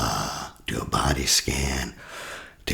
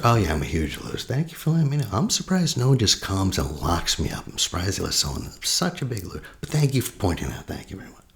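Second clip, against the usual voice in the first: sarcastic agreement; 6 semitones higher than usual. Shown as a demonstration. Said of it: "Agree and amplify".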